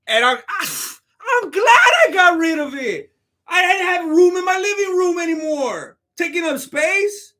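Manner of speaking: high, loud mock protest; put-on high voice, overdone indignation; Usman. Streamer playing Usman disowning his belt, high hammed-up impression. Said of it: "Just like Usman when he came on J R E".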